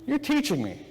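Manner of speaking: high-pitched acted "aha" moment; retold wonder as it suddenly makes sense; dawning realisation. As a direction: let the penny drop, voice lifting. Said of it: "a light bulb go off".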